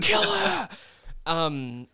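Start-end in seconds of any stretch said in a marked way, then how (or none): 0.0-0.7 high, loud bloodthirsty cheer; shouting at the screen. Retold or imitated. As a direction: yell it like a fan at the TV. Cheering at TV fight.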